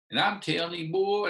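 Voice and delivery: re-enacted angry coach; retold angry yelling. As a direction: scold him with mild heat. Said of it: "I'm yelling getting mad".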